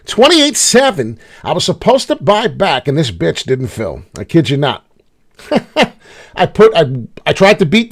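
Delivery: loud, high, disbelieving rant at the missed order; loud frustrated shout; exasperated outburst. Real, not acted. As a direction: belt it out in outrage. Ranting about an unfilled buy order.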